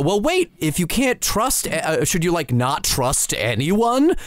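slightly hesitant mock question, slowing at the end; acting out the video. Reenacting the video's joke on request, lightly acted questioning. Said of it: "give that delivery real quick".

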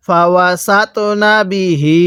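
measured chant with the last "hee" of বিহি held; slow Quran recitation. Shown as a demonstration. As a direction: recite slowly, stretching the end of বিহি. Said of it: "এক আলিফ টেনে পড়তে হবে".

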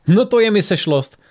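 high-pitched, jovial exclamation; amused greeting. A narrator's reading. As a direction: greet an unexpected gathering with delight. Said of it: "zasmál se Ryan".

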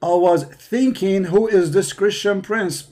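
slow, drawn-out mock of the caller's words. Host mockingly slowly repeating the caller's words. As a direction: repeat his line slowly, like a dim echo. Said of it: "he just said".

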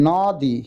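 "নদী" drawn out as "naw-di"; open vowel. Shown as a demonstration. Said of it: "মাথা নিচু করে উচ্চারণ করতে হবে". (খোলা অ টেনে "নদী")

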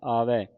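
ਆਵੈ ending in an open "ai". Shown as a demonstration. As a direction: end ਆਵੈ wide, "aa-vai". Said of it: "ਦੁਲਾਵਾਂ ਲੱਗੀਆਂ".

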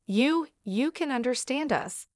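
a touch of shocked disbelief, pitch lifted; mildly stunned husband. Acted. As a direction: stammer it out, caught off guard. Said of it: "sounding shocked".

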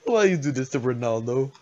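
put-on Dominican accent, playful pleading; light Dominican-accented mock reproach. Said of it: "I don't know why I'm doing this accent".

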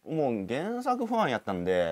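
drawn-out, hesitant start in Kansai dialect. Shown as a demonstration. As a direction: ease slowly into Kansai speech. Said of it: "関西弁でいこうかなと". (ゆっくり関西弁で)

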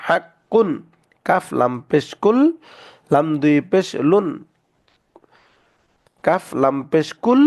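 measured letter-name recital, each part paused, then joined as in "তাব্বা"; tashdid spelling drill. Shown as a demonstration. Teacher drilling students on spelling, doubled letters held as in "কুল্লুন". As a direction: spell each syllable, then hold the doubled consonant, as in "মাস্সা". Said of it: "তাসদিদওয়ালা হরফ দুইবার পড়া যায়".

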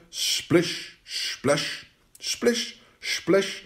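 soft, spaced-out splish-splash effects; wet splashing sounds. Acted. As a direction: voice each splash separately, like wet steps. Imitates wet frog climbing stairs.

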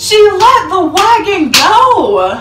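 half laughing, half crying at the memory. Real, not acted. Telling viewers the wagon story, laugh-crying.

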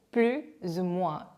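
slow, careful "plus ou moins" with z before "ou"; teacher's measured "plus ou moins", plus linked to ou; liaison demo. Shown as a demonstration. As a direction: model "plus ou moins" slowly as plu-zou-moins. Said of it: "요것도 이제 연음을 해주고요".

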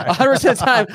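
laughing while repeating the phrase; high and laughing at her own mistake. Real, not acted. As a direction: laugh through the words. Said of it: "laughs at herself".

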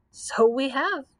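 a touch of amusement; mild chuckle. A narrator's reading. Scarecrow agrees with the Grand Choo Choo, lightly chuckling. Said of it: "chuckled the Scarecrow".

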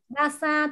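voiced, puff-free first sound in "Basa"; unaspirated B. Shown as a demonstration. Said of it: "từ này không bật hơi".

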